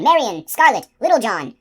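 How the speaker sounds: high, loud desperate shouts; shouting. A narrator's reading. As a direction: yell after them, begging them back. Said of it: "they shouted".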